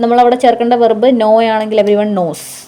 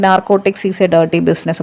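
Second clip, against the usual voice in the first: quoting a film line; 3 semitones lower, much slower than usual. Retold or imitated. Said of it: "ആ dialogue ഒന്ന് ഓർത്ത് നോക്കി".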